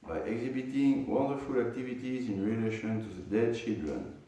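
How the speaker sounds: measured, formal reading aloud; scripture commentary reading. Acted. Teacher reading the purport to students, measured reading aloud. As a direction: read the commentary out to a class.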